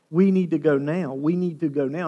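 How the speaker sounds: urgent, insistent plea; tense urging. Acted. Jairus pressing Jesus to hurry, tense and urgent. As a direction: press hard on each repeat. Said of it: "Jairus in front of him, I could imagine, was going".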